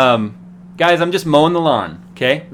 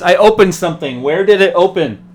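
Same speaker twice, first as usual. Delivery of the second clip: raised, louder mimicry of a co-host; mock him in a higher, pushed voice; Jerry; 5 semitones higher, 6 dB louder than usual. Correcting a friend's impression of their co-host, exaggerated mimicry. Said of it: "it's more like this".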